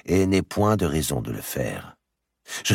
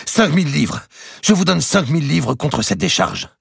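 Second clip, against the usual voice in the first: higher, louder eager bid; raising the offer; 13 semitones higher, 6 dB louder than usual. A narrator's reading. The archbishop raises his offer loudly to the merchant. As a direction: push the number up at him.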